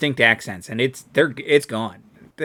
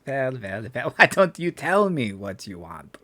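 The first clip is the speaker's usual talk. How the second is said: put-on invented alien accent on "well, well, well"; made-up Hutt accent. Game master's Garbo asks what you want, made-up accent. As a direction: ask it in a put-on foreign accent. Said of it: "so Garbo says".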